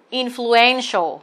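"influential" đọc chậm, nhấn âm tiết thứ ba "en"; tách từng âm tiết "influential", trọng âm trước đuôi "ial". Shown as a demonstration. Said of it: "Influential là trọng âm ba". (nhấn "en" trong "influential")

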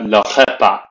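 le repas with throaty French r, "ruh-pah". Shown as a demonstration. Teacher modelling meal in French, French r. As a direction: repas with a uvular r. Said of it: "models French word".

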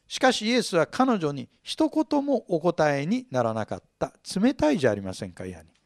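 normal talking voice

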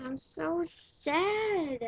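slow, drawn-out mock whine; a hammed-up sad moan. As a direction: stretch it out in playful misery. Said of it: "I mean angry".

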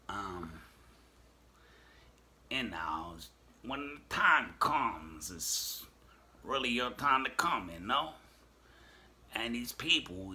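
slow and knowing, like a comic leaning in; Cat Williams impression. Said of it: "or do I sound like Cat Williams".

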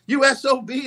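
a hint of a bitter drunk ballplayer; sniveling mad. Whitey taunts Don at the party, sniveling and mock-mad. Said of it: "Whitey was so sniveling mad".

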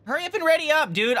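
impatient loud urging. Real, not acted. Impatient gamer urging teammate.

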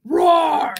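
loud playful dinosaur roar. Acted. Teacher roars like a dinosaur.

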